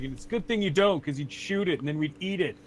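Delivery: lightly acted scolding knight; mildly indignant put-down; Sturm. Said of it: "He's like".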